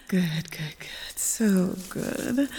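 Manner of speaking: unvoiced, hushed whisper. Lover admiring her partner, soft whisper. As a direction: breathe it softly as a secret.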